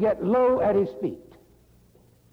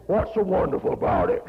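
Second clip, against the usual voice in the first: contrary retort. Retold or imitated. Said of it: "the most contrary man I've ever met".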